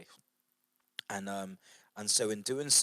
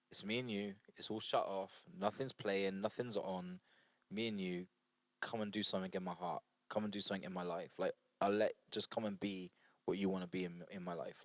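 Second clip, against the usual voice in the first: intimate prayer; 5 dB quieter than usual. Acted. Speaker models a private prayer alone with God, softly. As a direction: pray it quietly, as if alone with God.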